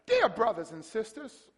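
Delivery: mock-loving letter greeting, lifting at the end; nice loving tone. Paul greeting the church in his letter, nice loving tone. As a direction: greet them sweetly as Paul, playing up the niceness. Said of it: "talking to you with a nice, loving tone".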